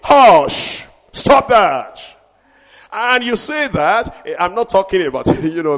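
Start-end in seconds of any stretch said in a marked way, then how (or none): 0.0-2.0 commanding hush. Pretend. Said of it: "you will say".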